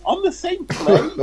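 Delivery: high, slow, incredulous question; mock horror at the food; shocked disbelief. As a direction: sound appalled at the idea. Retelling shocked reaction to friend.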